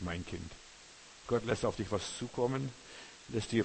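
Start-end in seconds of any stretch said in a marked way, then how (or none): 0.0-0.5 much softer and lower, gentle; soft tender address. Shown as a demonstration. Preacher doing a soft sentimental God voice. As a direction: murmur it tenderly. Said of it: "Nein, Gott spricht nicht".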